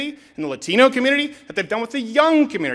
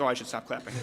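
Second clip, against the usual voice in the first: imitating self; 9 semitones lower, 12 dB quieter, faster than usual. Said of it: "I'm like".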